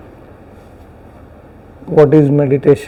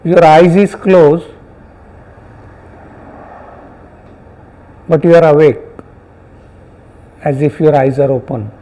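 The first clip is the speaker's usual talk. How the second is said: unhurried meditation guidance with long pauses; guided meditation. Real, not acted. Teacher guiding students to notice sounds and body sensations, guided meditation. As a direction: guide them gently, phrase by phrase, leaving silences.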